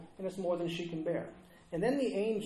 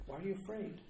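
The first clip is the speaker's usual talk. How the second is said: much softer, hushed question; tender appeal; 9 dB quieter, faster than usual. Acted. Preacher to the fearful after the resurrection, tender hushed appeal.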